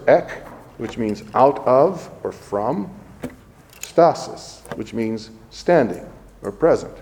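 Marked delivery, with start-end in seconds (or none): 0.1-0.3 ek said short and crisp as a Greek syllable; Greek root ek. Shown as a demonstration. Priest breaking down ecstasis, saying ek. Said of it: "two Greek words". 3.8-4.6 stasis said slowly as its own word; Greek root stasis. Shown as a demonstration. Priest breaking down ecstasis, saying stasis. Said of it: "two Greek words".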